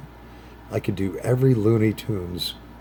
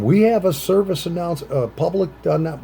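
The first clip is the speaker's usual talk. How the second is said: news announcer bulletin; 8 semitones higher than usual. Retold or imitated. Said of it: "whatever they said".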